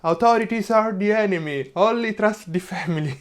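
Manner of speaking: mild mock protest chant; mock street shout. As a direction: call it out like a half-hearted protester. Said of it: "people shouting on the street".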